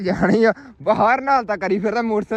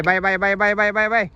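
louder, rhythmic calls to a hawk; loud bird call; 5 dB louder than usual. Real, not acted. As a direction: call the bird out across the field. Second man calls the hawk.

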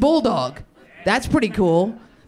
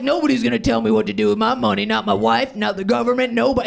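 mock libertarian gambler; faster than usual. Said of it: "They're like".

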